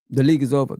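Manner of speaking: low, smug mimicry of arrogance; lightly ape their confidence; mock rival fan. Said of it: "That's what they're thinking".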